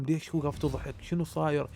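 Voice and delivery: mildly panicked quote from a storyteller; frightened questioning. Retold or imitated. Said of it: "أنا خفت".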